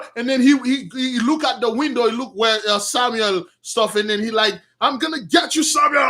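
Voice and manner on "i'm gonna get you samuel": raised-pitch madman's threat building to a laugh; angry threat. Acted. Saul threatening Samuel, yelling angrily. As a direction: threaten him like a crazed king. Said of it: "He was yelling, screaming, he was angry".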